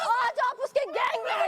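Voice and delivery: laughing shout. Real, not acted. Heated argument, laughing shout.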